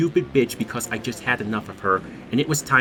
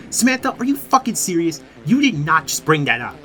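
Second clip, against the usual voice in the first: imitating an angry friend, pitched up; mock outrage, higher voice; 5 semitones higher than usual. Friend joins the party to confront Samantha, angry. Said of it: "he was fucking angry".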